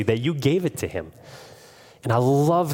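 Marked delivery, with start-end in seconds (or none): 0.0-1.1 mildly disbelieving, stretching the key word a little; incredulous. Retold or imitated. Police question the bishop about the silverware, incredulous. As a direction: imitate doubtful officers checking an unlikely story. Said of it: "they say this incredulously".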